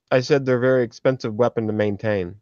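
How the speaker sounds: talking while chewing; words round a mouthful of food; mouth full. Real, not acted. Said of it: "sorry, I'm chewing".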